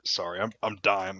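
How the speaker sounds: talking while choking on water; strained, choking on a drink. Real, not acted. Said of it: "I'm choking on water".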